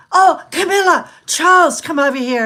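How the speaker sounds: high, loud mock call across a crowd; calling out to royals. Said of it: "everyone's going".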